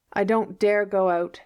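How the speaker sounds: mildly tragic, self-pitying plea; martyr's tone. Acted. Anne to Marilla, a lightly voiced martyr's lament. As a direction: give it up like a martyr. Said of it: "in the tone of a martyr".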